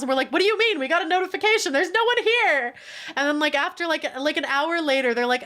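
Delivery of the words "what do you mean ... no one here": mock exasperation. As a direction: push the disbelief. Exasperated reply to cruise staff.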